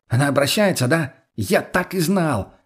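high, agitated exclamation; alarmed outburst. Acted. Friend fearing she is turning, high and alarmed. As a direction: start urgent, stretch the last words in dismay.

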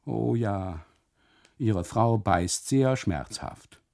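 drawn-out weepy complaint; tearful, slow lament. Acted. Custodian to husband, slow and tearful. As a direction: let it drag with tears. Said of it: "Tränen über die Wangen".

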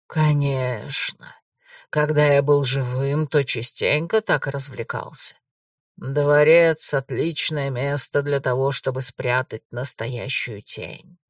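low, slow, eerie ghost; a calm brother from beyond the grave; shadow ghost voice. Acted. Ghost explains the palace.

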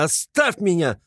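high, pained shout of leave me; anguished cry. A narrator's reading. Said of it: "вскричал он вдруг в судорожной тоске".

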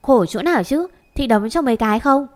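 a sister's cheeky threat; snippy retort. Acted. Châu snaps back at her sister with a mock threat. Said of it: "Châu cong cớn".

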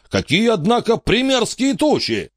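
lightly voiced greedy old tour guide; pompous showman. A narrator's reading. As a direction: hawk the battle show like a carnival barker. Wicks remarks on clouds.

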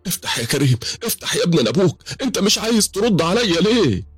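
rising high pleas; pleading at door. Acted. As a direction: beg through the locked door. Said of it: "فضلت اخبط عليه وانا بقول".

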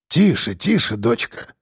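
тихо, успокаивая, затихая; успокой её, как дочку; мягко. A narrator's reading. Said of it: "снова мягко сказал дед Ефим". (дед мягко успокаивает Евгению)

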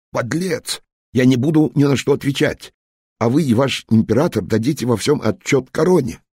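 high, loud indignant outburst; outraged. Acted. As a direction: hurl it back in fury. Englishman outraged at general.

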